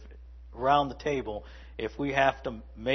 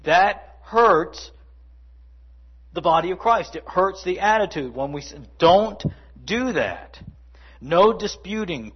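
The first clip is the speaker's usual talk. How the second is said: ordinary talk, nothing marked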